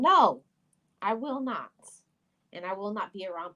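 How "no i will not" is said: a sudden loud, high "No"; defiant no. Real, not acted. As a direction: slam the refusal down hard. Refusing to hide her tears.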